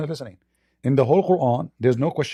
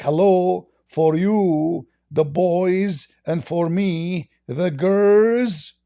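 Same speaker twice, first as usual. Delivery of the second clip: higher, slow, hammed-up mock complaint; mock complaining God; 5 semitones higher, much slower than usual. Mocking the verse's God to Abdul, in a higher, slow, hammed-up complaint. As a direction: parody a petty god griping about his share.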